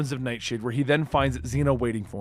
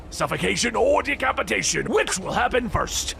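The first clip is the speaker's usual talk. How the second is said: joking menace; 6 semitones higher than usual. Acted. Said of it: "he jokes".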